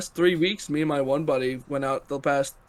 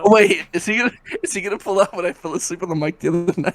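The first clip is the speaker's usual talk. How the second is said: laughing; 2 semitones higher, faster than usual. Real, not acted. Laughing fearful accusation.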